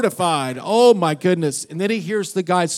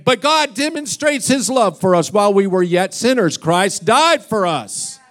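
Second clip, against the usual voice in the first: louder, fervent mock sermon; hardcore preaching; 3 semitones higher, 4 dB louder than usual. Pastor preaching full force to the cow, mock fervent. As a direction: preach it hard like a revival. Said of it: "he's just preaching a hardcore salvation message".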